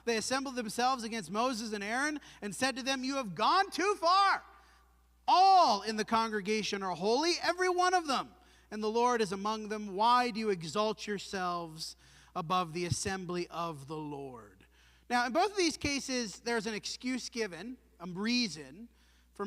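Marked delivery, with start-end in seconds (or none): 3.0-14.6 rebels' indignant challenge. Acted. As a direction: throw the charge at Moses like a mob. Korah's rebels confront Moses.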